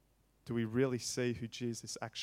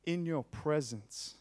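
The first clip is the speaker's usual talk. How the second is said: loud, slow pleading to the Father; preacher voicing Jesus' loud prayer; impassioned prayer; 3 semitones higher, 6 dB louder, slower than usual. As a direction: plead "Make known my worth" slowly. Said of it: "his prayer to the Father is".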